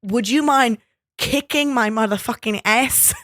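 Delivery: high, loud dare; lightly voiced rowdy singer; mock tough bro challenge. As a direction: egg on your rival. Plays Oak King.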